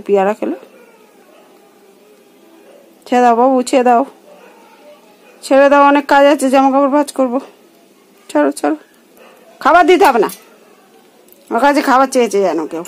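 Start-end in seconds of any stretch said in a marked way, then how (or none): 3.1-10.3 louder, begging the bird to let go; loud coaxing plea. Real, not acted. Asking the clinging bird to let go, loud coaxing. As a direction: urge the bird off, half-laughing.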